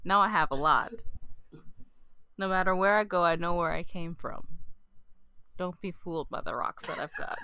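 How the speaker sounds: reciting lyrics as a poem; deadpan dramatic reading; poem recitation. Pretend. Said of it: "a poem I'd like to".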